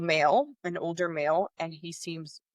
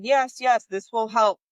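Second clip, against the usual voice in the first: higher, louder, brightly insistent nurse voice; perky nurse; 4 semitones higher, 5 dB louder, slower than usual. Retold or imitated. Nurse urging the worried mother to go register, mock chirpy. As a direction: mimic the nurse chirping yes yes.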